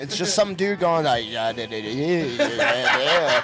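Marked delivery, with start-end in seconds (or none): 1.3-3.4 fake French accent. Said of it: "the French accent isn't even".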